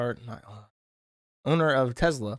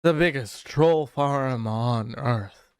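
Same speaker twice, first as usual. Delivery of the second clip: slow, lightly put-on Elon Musk voice; mocking Elon voice; 2 semitones lower, much slower than usual. Streamer mocking Musk's tweet, slow lightly put-on voice. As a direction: drag it out in a mock Musk voice. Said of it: "oh, I had to do my voice".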